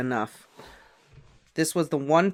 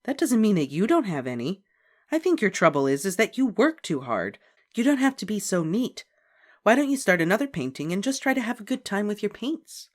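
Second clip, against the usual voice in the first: reassuring; 7 semitones higher than usual. A narrator's reading. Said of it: "Miss Robin smiled reassuringly".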